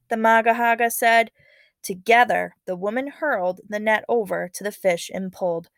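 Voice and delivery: lively read-aloud narration voice; story narration. A narrator's reading. Teacher reading a legend to students, expressive narration.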